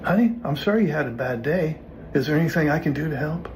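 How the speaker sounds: sympathetic script line. Shown as a demonstration. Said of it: "here's your line".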